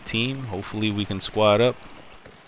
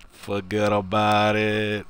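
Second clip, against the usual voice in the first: laughing; slower than usual. Real, not acted. Laughs at his own joke.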